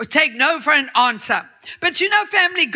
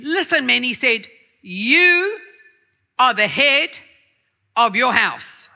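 much stronger voice; 2 semitones lower than usual. Acted. God declaring to the men, forceful. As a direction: declare it with power. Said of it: "in a much stronger voice".

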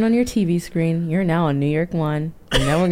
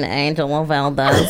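mock New York accent; 4 semitones lower, slower than usual. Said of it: "so many fake New York accents on the show".

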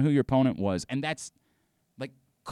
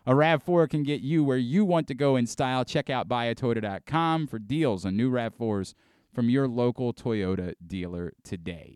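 1 ad read. Acted. Reads sponsor ad.

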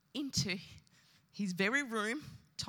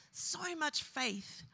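very slow, held back; even slower, weighed down; grieving; 6 semitones higher, much slower than usual. Real, not acted. Preacher repeating the friend's faith, very slow. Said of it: "repeat in grief".

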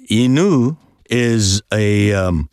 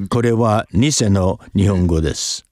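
Japanese; faster than usual. Shown as a demonstration. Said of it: "This is fake Japanese".

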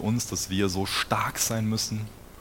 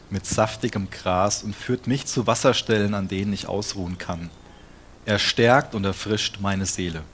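scripture reading; 3 dB louder than usual. Acted. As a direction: proclaim the verses to the congregation. Reads Psalm 23 aloud. (laut und feierlich vorgelesene Bibelstelle)

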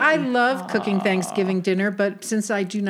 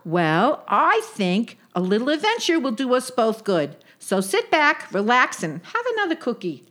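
put-on coaxing old Jewish aunt; lightly voiced Brooklyn yenta; yiddish accent; 3 semitones higher than usual. Sadie soothes Sophie.

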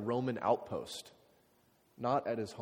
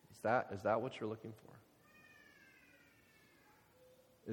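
slow, searching question; 6 dB quieter, much slower than usual. Acted. Very slow, far, high.

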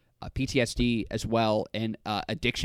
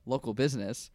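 bleeped out; 4 dB quieter than usual. Real, not acted. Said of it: "you said a lot of offensive shit".

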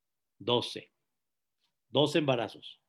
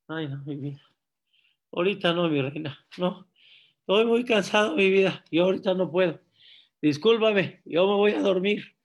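tired husband; 4 dB louder, faster than usual. Acted. Marido cansado rechaza a la esposa.

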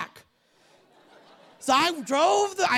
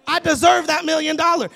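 mock indignant shout; 3 semitones higher, 7 dB louder than usual. Mocking self-righteous mindset.

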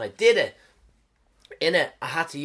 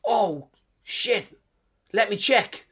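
startled makeup lady; 5 semitones higher, 4 dB louder, much slower than usual. Retold or imitated. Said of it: "And she said".

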